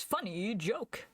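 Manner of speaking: slow, drawn-out deadpan joke line; lightly voiced Yoda; imitating Yoda. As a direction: drawl it like Yoda being sarcastic. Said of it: "where Yoda goes".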